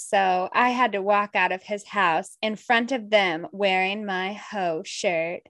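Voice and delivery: a lightly sultry reading voice, slowing at the end; sexy voice. Shown as a demonstration. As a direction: read it a touch seductive, stretching the last words. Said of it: "Love the voice".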